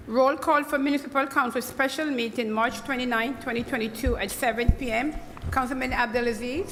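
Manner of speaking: loud, formal roll call. Acted. Clerk calls the roll.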